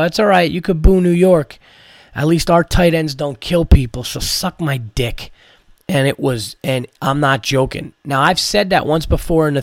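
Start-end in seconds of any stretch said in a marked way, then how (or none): 0.0-5.3 defiant comeback. Retold or imitated. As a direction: fire back at the hecklers. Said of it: "a little more conviction and a little more fire".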